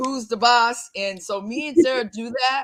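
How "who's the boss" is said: emphatic, punchy, put-on loud shout. Retelling a line from a sitcom about two women: imitating a loud shout. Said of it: "she says it really loud".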